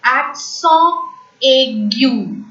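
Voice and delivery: "accent aigu" as ak-SON ay-GYU, firm and deliberate; French pronunciation. Shown as a demonstration. Teacher names acute accent in French, "accent aigu" French-style. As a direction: model "accent aigu" in French, nasal end on "accent". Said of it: "Acute accent is called as".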